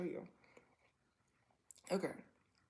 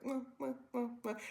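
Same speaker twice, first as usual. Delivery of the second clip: higher-pitched mwah sounds, quick pecks; pecking kiss noises; 5 semitones higher, 4 dB quieter than usual. Shown as a demonstration. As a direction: imitate a run of little kisses. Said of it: "a little more intensely".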